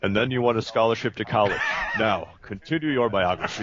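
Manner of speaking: booming robot villain voice. Retold or imitated. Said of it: "the booming robot villain voice".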